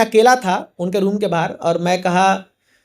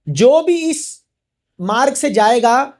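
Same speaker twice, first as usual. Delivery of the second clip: demoness's decree; 3 semitones higher, slower than usual. Acted. Demoness blocking Hanuman's path over the sea, slow decree. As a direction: lay down the rule in measured, separated phrases. Demoness announces her rule to travellers.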